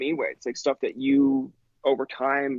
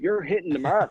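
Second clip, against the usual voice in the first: laughing praise; 4 semitones higher than usual. Real, not acted.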